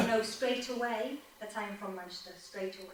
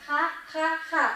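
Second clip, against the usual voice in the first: mock laugh; 4 semitones higher, 4 dB louder than usual. Shown as a demonstration. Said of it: "fun is ha".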